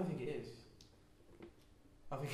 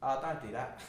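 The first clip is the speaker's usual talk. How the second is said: light put-on Australian-singer impression; a pop singer. Trying Australian for co-hosts, light celebrity impression. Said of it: "That's more the singer".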